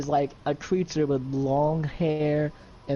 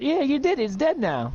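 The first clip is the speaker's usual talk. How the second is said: excited cheer; 11 semitones higher than usual. Acted. Cody cheering the kill.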